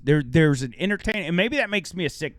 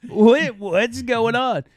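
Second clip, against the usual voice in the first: mock shocked reaction; 6 semitones higher, 5 dB louder, slower than usual. Acting out everybody's shocked reaction.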